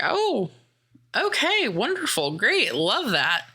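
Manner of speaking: high, sing-song fake enthusiasm over the first words; sneering pretend glee at her giving up; mock sarcastic delight. Villain mocking his captive's surrender with high sarcastic glee.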